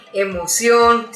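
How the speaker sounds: slow "emoción", stressed on the final "ción"; stress on last syllable. Shown as a demonstration. Teacher giving an aguda example, "emoción" stressed on "ción". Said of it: "la mayor fuerza de voz está en la última sílaba".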